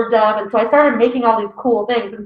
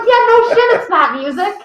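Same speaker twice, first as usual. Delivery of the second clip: put-on teen sass; 10 semitones higher, 4 dB louder than usual. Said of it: "I'm like".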